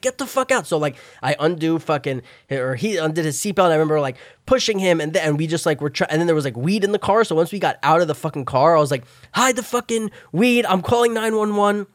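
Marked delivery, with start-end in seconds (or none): 0.0-0.7 high, insistent order; urgent yell. Retold or imitated. To his friend in the wreck, urgent high yell. 9.3-11.9 panicked orders. Retold or imitated. To his friend beside the wreck, frantic orders.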